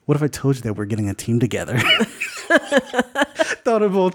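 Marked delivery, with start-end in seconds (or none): 0.1-1.8 quick, laughing smirk; smirking Stark. Acted. Stark recruiting Thunderbolt, fast laughing smirk. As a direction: tempt him through a laugh. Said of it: "gives Thunderbolt a smirk".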